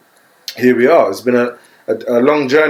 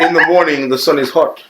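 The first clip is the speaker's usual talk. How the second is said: Jamaican accent; 3 semitones higher than usual. Shown as a demonstration. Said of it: "Give me that in your best Jamaican accent".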